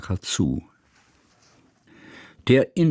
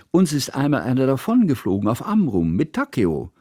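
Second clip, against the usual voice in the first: put-on eager child; 6 semitones higher than usual. A narrator's reading. Girl explains eagerly.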